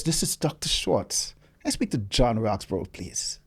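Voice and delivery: lightly imitated German-Trinidadian accent, measured. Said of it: "In a German Trinidad accent".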